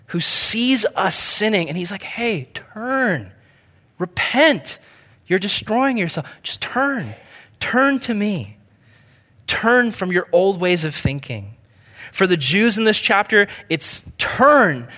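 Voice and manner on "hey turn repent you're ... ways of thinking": higher, gentle pleading of a loving father. Retold or imitated. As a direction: call a wandering child home, lightly voiced. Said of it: "God is this loving Father".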